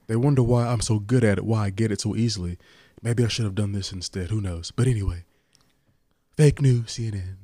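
lightly voiced boastful president impression; rambling, self-satisfied politician parody; Donald Trump. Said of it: "you and your Trump impression".

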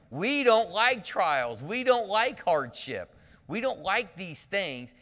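slow, high and loud, hitting "don't" each time; preaching emphasis. Acted. Preacher challenging the congregation, slow and loud. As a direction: pound "don't" like a pulpit refrain.

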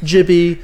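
"Gibby" said with a soft J sound. Shown as a demonstration. Introducing the podcast guest, "Gibby" with soft G. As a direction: say "Gibby" as "Jibby". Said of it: "but it's Shibby".

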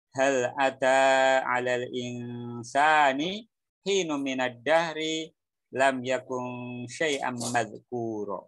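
slow, sustained Arabic recitation; measured, drawn-out verse delivery; Quran recitation. Shown as a demonstration. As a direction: recite the verse with long held vowels.

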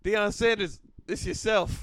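Deion voice. Pretend. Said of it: "calling Deion in Deion voice".

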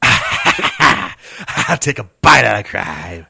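slow, laughing gruff crime-dog line; slow laughing dog-mascot voice; gruff dog catchphrase. Pretend. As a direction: growl it out slowly, laughing through it. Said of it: "Now say that catchphrase again".

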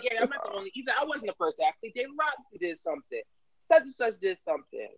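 lightly voiced sing-song imitation; a touch of Jalen's singsong lilt; sing-song Jalen Rose. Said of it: "you got the sing song voice now".

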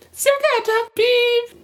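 very high, slow squeak; squeaky voice. Acted. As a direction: read it in a tiny squeaky voice. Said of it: "jetzt muss ich erstmal verstellen".

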